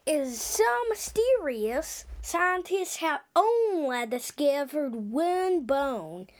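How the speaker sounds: put-on slow, drawn-out Australian accent; a kid's mock Australian accent, stretching words. Kid vlogger hamming an Australian accent about the Ozoraptor. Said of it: "I should stop my Australian accent".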